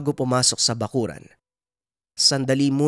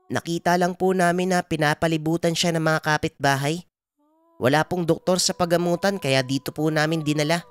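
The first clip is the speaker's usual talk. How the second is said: put-on higher-pitched boy explaining what happened; Juanito, earnest child; 8 semitones higher than usual. Boy tells healer's grandson how they found her, earnest. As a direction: explain earnestly in a young son's voice.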